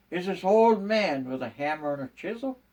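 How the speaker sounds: usual speaking voice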